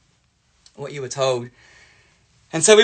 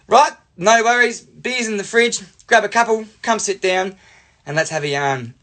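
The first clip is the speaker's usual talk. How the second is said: raised, hearty host voice; welcoming dad; 6 semitones higher than usual. Retold or imitated. Dad inviting son's friends in, hearty welcome. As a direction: welcome the guests in, higher than your usual talk. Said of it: "And Dad would go".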